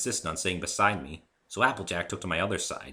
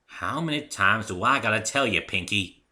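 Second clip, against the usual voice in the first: annoyed; 4 semitones higher, 6 dB louder than usual. Acted. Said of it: "annoyance creeping into her own voice".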